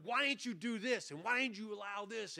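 high-pitched mock complaint, not shouted; David protesting to God. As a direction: act out an aggrieved plea to God. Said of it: "he's yelling at God".

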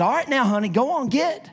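lightly voiced coaxing dog owner; a hint of sweet-talking lady; lady shooing dog. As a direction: gently shoo the pet, pitch lifting at the end. Lady gently shooing her dog.

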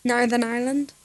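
short Northern Irish demo; Northern Irish accent. Shown as a demonstration. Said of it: "it's like that".

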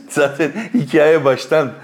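laughing out of nerves, slowed; an angry little laugh through the words; nervous laugh. Real, not acted. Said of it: "gülüyorum ama sinirden gülüyorum".

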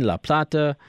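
offhand Spanish pronunciation of La Plata; Spanish accent. Real, not acted. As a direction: slip into a light Argentine Spanish accent on La Plata. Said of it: "I don't know why I said that with an accent".

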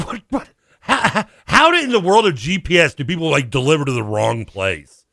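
high, exasperated disbelief; incredulous rant. Retold or imitated. Venting at the Dasher's wrong delivery, high incredulous rant. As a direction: climb up in outraged disbelief.

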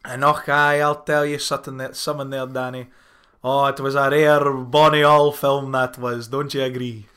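put-on broad, playful Scottish accent. Host telling co-host about a bonny old film, put-on Scottish accent. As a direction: ham up a chatty Scottish accent. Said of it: "wanna try my Scottish accent".

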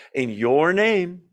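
slow, emphatic "your"; pointed, drawn-out weight on "your"; stress on YOUR. Acted. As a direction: stretch out "your" as if in capitals. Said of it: "all caps".

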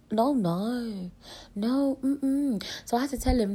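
ordinary talk

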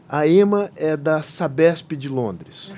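slow, amused quote through a laugh; lightly mock the grand title, chuckling. Joking quote of colleague's intro.

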